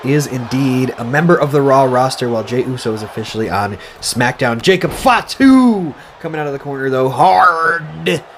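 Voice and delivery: lively play-by-play announcing; wrestling commentator. Acted. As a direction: call the match like a ringside commentator. Play-by-play of game match.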